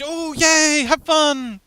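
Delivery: high, bright burst of yay; squealing sendoff; excited cheer. Real, not acted. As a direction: cheer them off to the beach. Cheering off a chat friend.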